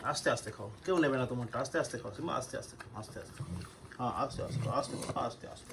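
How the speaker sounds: hushed, gentle coaxing; soft talking to a dog. Real, not acted. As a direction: murmur softly to a dog eating. Soothing the dogs while eating.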